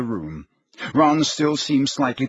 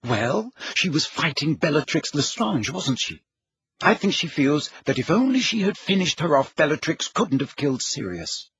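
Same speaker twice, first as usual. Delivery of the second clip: Hermione, earnestly explaining; 5 semitones higher than usual. Acted.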